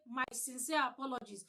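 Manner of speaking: stock apology with no feeling in it; rote, heartless sorry; soulless apology. Shown as a demonstration. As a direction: read My sincere apologies as a dead formula. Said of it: "The intonation is missing".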